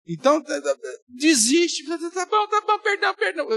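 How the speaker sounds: high, hurried mock surrender; mimicking someone caving in to end an argument; giving in. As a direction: back down fast to stop the quarrel. Giving in to avoid a fight.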